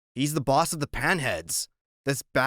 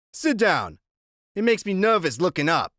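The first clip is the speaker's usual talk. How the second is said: menacing biker voice; 5 semitones higher, 3 dB louder than usual. Acted. Iggy ordering.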